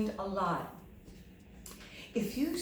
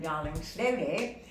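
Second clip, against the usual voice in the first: gentle coaxing; 5 semitones lower than usual. Retold or imitated. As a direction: ease the student along gently. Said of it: "I said".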